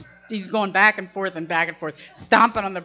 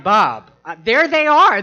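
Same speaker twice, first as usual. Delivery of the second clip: hammed-up urgent alert; retold alarm; 8 dB louder than usual. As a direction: cry out a warning, pitch leaping up. Acted alarm at baboons on roof.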